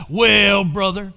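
mildly imitating a pious churchgoer; a hint of sanctimony on a drawn word; mock-religious talk, lightly done. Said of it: "do it in my religious voice".

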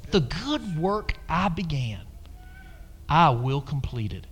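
the Lord speaking. Retold or imitated. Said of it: "what the Lord was saying to me is".

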